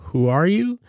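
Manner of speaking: high, timid question; fearful. A narrator's reading. Joel facing the strange witch, fearful. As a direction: ask it nervously, afraid of the answer. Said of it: "betraying a fearful stutter".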